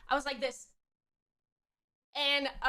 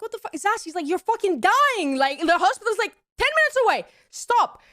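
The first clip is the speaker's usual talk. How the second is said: mock angry ex; 6 semitones higher, 3 dB louder than usual. Ex yelling at her.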